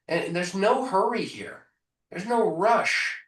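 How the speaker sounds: slow, easygoing reassurance; calm no hurry. Shown as a demonstration. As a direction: take your time, soothe them.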